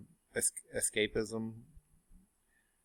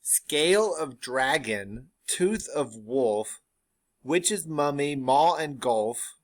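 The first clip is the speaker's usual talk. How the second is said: slow, louder, wild witch recital; crazed witch; 2 semitones higher, 4 dB louder, slower than usual. Acted. Teacher voices the third witch going crazy, loud and slow. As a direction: rant the ingredients like a mad witch. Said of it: "the third witch goes crazy".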